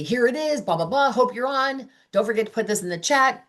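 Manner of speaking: high, light, rattled-off invite; breezy mock invite. Consultant dashing off an invite to a guest, high and breezy. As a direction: toss it off in a high voice.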